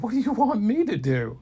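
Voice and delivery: high, loud panicky question; panicked. Acted. Kid asking wizard for help, loud panicky cry. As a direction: yelp it in panic.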